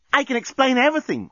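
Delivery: high-pitched, hasty excuse voice; pleading Lucy. Acted. Lucy trying to explain to Dan, high pleading.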